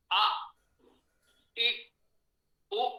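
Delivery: आ, इ, उ said slowly, one by one; vowel demo. Shown as a demonstration. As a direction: model each vowel clearly for the class. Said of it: "अब आप स्वरों का उच्चारण करके देखें". (स्वरों का स्पष्ट उच्चारण)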